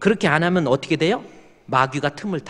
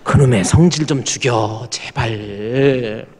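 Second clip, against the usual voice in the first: exasperated plea; 5 dB louder, much slower than usual. Acted. Pleading with the angry husband.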